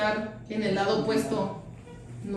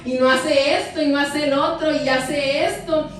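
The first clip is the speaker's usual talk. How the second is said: raised, louder indignant protest; upset complaining; 4 semitones higher, 3 dB louder than usual. Retold or imitated. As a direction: replay the angry complaint with a rising pitch. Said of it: "yo quería solucionar todo a gritos".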